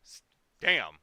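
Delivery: sudden loud "damn!" of surprise; surprised shout. Real, not acted. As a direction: blurt it out, amazed. Sees nineteen viewers.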